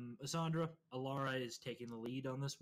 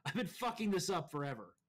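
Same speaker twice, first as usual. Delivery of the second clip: laughing; 5 semitones higher, 4 dB louder than usual. Real, not acted. Laughing at own mistake.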